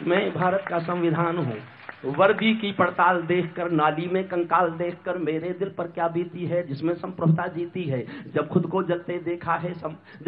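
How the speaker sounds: restrained, rhythmic stage poetry; sombre verse. Acted. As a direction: let the verse sink low and steady.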